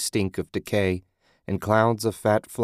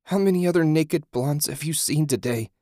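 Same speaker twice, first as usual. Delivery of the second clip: high-pitched, scornful comeback; sharp sarcastic question, pitched up; spitting retort; 8 semitones higher than usual. A narrator's reading. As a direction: spit the question out with irritation. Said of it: "she spit".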